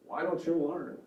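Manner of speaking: a hint of an exasperated parent lecturing; mild finger-wagging reproach; judgmental parent. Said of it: "Parent voice would be authoritative".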